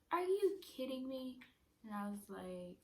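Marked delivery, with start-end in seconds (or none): 0.1-1.4 higher mock disbelief as mom; lightly hammed-up incredulous question; dramatic mom. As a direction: act out a mother overreacting. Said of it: "My mama is so dramatic".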